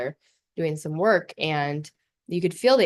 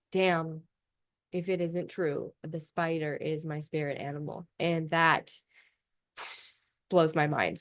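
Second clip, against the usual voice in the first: soft awed musing; 6 dB quieter than usual. Real, not acted. Musing softly about spiders.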